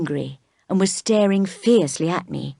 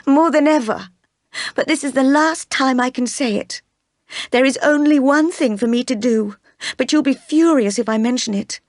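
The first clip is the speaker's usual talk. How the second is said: Jane, anguished and firm; 7 semitones higher than usual. Acted. Jane tells Rochester she must leave, high and anguished. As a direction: press on in distress, voice raised high. Jane's voice, higher and louder.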